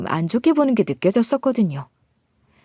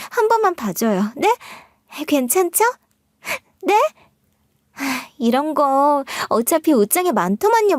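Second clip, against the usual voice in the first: higher, wheedling little-sister whine; cutesy fake apology; 4 semitones higher than usual. Sister-in-law brushing off the coffee stain with cutesy pleading. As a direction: sweet-talk your way out of it. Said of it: "되도 않는 애교로 얼렁뚱땅 넘어가려고".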